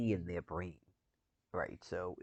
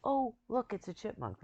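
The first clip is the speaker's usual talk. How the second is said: put-on high, louder baby-talk coo; cooing at a chipmunk; 6 dB louder than usual. Imitating people delighted by a chipmunk, high cooing voice. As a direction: coo it like spotting something cute. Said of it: "the voice tone of people that go".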